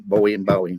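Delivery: "Bowie and Bowie" said two ways, OH and OW; one Bowie like snowy, one like cow; two pronunciations contrasted. Shown as a demonstration. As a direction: set BOH-ee against BOW-ee in "Bowie and Bowie". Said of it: "There's two different saying it".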